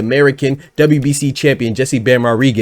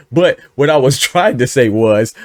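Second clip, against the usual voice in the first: laughing. Real, not acted. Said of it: "outburst of laughter spontaneously".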